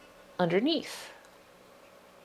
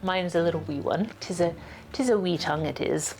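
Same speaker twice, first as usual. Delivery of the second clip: lightly put-on Irish or Scottish lilt; Irish accent. Plant host drifting into wee-tongue talk, mock Irish accent. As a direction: slip playfully into a hint of an Irish brogue. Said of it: "I've just turned Irish, Scottish".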